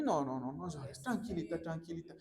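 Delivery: lightly acted, low hushing comfort; gently calm someone who is crying; soothing. Acting people comforting someone crying.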